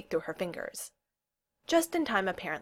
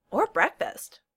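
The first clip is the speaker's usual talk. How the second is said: higher-pitched eager addition; chiming in; 5 semitones higher, 5 dB louder, slower than usual. A narrator's reading. Owen chimes in on Kel's missed meals, eagerly. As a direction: pipe up to add a point. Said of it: "Owen chimed in".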